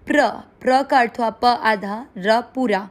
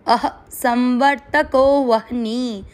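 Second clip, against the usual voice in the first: slow recitation; slower than usual. Shown as a demonstration. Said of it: "तीसरा चरण repeat".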